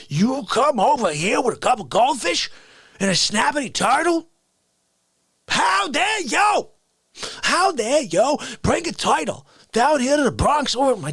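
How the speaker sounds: outraged regular scolding a rude guest; How Dare You guy. Acted. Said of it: "a stupid How Dare You".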